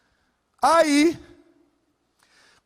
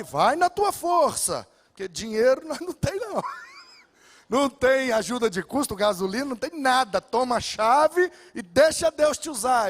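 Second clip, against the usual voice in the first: mock pastor voice.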